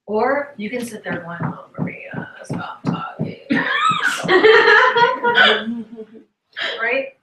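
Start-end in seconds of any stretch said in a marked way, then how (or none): 1.4-3.4 mock whisper. Secretly wishing Maria would stop. 3.4-6.2 loud high burst of laughter; big laugh. Real, not acted. Speaker laughing at her own Maria joke, loud and high.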